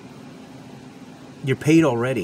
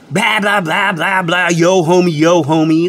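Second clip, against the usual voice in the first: droning mock street-talk, building louder; mock gang slang; 4 dB louder than usual. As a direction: rattle off mocking homie chatter, getting louder. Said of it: "turf wars or gang slang".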